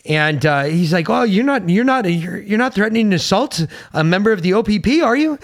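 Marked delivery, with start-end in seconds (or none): 1.1-5.4 high, indignant Canadian cop; a hammed-up Canadian officer; mock Canadian accent. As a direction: squeak it out like an offended Mountie.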